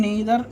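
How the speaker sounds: neither said as NAY-ther; neither, mispronounced NAY-ther; common mispronunciation. Shown as a demonstration. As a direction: say neither with an "ay" first vowel. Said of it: "అసలు pronunciation neither అనేదే ఉండదు".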